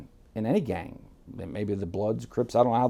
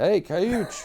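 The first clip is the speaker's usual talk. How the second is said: retold scream; 9 semitones higher, 3 dB louder than usual. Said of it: "he screams over to my dad".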